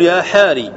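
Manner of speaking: "يا حاري" with the final ث dropped, ending on a long ي; clipped vocative name. Shown as a demonstration. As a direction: say "يا حاري" as ya ħaari, cutting off the last letter. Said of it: "تقول".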